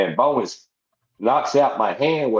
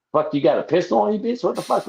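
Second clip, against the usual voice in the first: shocked yelp; 9 semitones higher, faster than usual. Retold or imitated. Panicked at friend with pistol.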